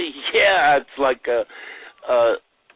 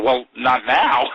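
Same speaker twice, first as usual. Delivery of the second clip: put-on slow, louder Long Island accent; 4 semitones higher, 6 dB louder, much slower than usual. Actors answering Woody about the accent, comic Long Island accent. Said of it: "we tried this Long Island".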